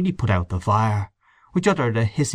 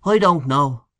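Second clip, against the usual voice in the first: higher-pitched, doubtful reply; mildly unconvinced; dubious; 5 semitones higher, slower than usual. Acted. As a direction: say it with a touch of doubt. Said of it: "said Mister O'Connor dubiously".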